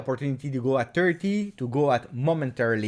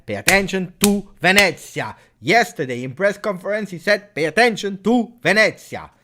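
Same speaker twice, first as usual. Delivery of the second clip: mock quoting coach; 5 semitones higher, 5 dB louder than usual.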